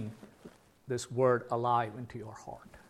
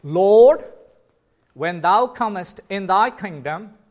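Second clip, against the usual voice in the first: loud, pleading cry, higher; 5 semitones higher, 11 dB louder, slower than usual. Retold or imitated. The thief on the cross calling to the Lord, loud pleading cry. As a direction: cry out as the dying thief begging. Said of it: "he cried out".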